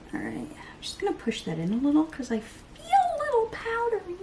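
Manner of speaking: high, breathy whisper to herself. Real, not acted. Patting in powder, whispering to herself. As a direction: whisper it under your breath. Whispered muttering while working.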